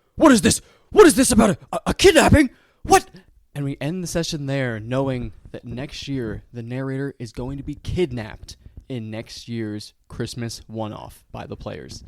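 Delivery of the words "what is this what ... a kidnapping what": very loud shouting with rising pitch. A game master voices the narrator, who turns around and yells. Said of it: "He turns around and yells".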